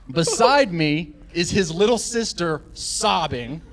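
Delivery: slow, weighty reveal; slow dramatic. Real, not acted. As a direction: let each phrase land slowly.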